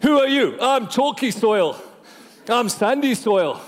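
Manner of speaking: lightly acted storybook dwarf introductions; hint of dwarf. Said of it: "almost like names for the seven dwarves".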